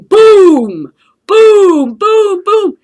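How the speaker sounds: loud, high booming fireworks imitation; shouted fireworks booms; mock explosion booms. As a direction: boom it out like distant fireworks. Fireworks going off far away.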